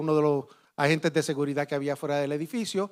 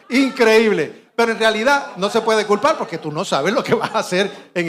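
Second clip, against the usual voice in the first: laughing; 3 semitones higher, 5 dB louder than usual. Real, not acted. Laughing over the anecdote.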